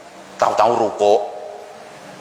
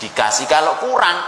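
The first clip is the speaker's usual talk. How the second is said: normal talking voice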